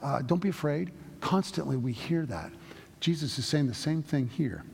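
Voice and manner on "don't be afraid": angel's reassurance. Retold or imitated. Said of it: "seeing an angel is not a fun thing".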